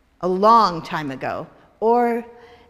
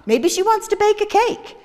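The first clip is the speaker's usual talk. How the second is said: corner shop man; 12 semitones higher, 6 dB louder than usual. Acted. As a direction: stretch it out in a silly high voice.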